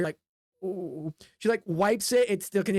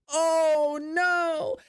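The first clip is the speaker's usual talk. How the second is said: dismayed oh no; 8 semitones higher than usual. Acted. Player sees blood.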